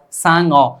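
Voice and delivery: सांग अ broken in two, "saang, o"; wrongly split word. Shown as a demonstration. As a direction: split सांग अ, closing on ng before a separate vowel. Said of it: "बोलने में तो ऐसा ही लगता है".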